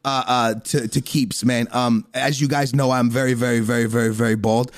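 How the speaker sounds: low, easygoing ad read; casual sponsor read. Acted. Host thanks podcast sponsor, casual low ad read.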